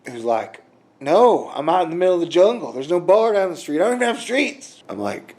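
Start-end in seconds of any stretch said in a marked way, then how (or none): 1.0-4.8 higher-pitched, hurried imitation of an objector; mock protesting guy. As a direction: pitch climbs as the mock complaint builds. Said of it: "there's one guy out there".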